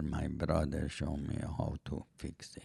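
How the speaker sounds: low, soft, drowsy, half-asleep speech. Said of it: "You sound like you're falling asleep".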